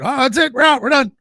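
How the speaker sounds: a hint of a fretful old lady; lightly voiced, anxious old woman; spry old voice. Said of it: "I made Dave sound like a little old lady".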